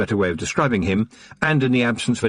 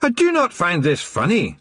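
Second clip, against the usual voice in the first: mock shout; 9 semitones higher than usual. A narrator's reading. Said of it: "before shouting".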